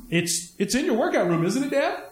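mock innocent, rising into a question; faked innocence, lightly voiced; playing dumb. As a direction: feign total innocence to dad. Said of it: "I'm playing stupid here".

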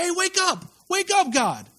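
lightly hammed-up plea to a sleeping god; mock pleading call. Preacher imitating Baal's priests, mild mock call. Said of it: "But they're like".

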